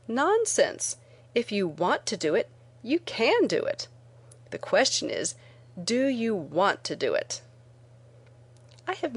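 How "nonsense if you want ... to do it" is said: brisk dismissal. Retold or imitated. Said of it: "I simply say".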